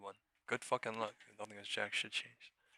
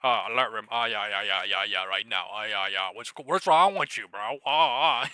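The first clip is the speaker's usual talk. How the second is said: loud, rapid yeah-yeah babble; mocking channel hopper; 13 dB louder than usual. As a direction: parody an eager viewer jumping rooms. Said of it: "they're like".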